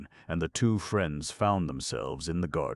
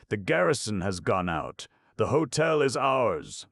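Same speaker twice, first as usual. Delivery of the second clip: triumph; 7 semitones higher, 5 dB louder than usual. A narrator's reading. Triumphant cry after success.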